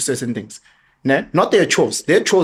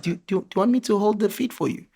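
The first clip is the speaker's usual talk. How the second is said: put-on eager boy; 7 semitones higher, 4 dB quieter, faster than usual. Son offers to hold chicken.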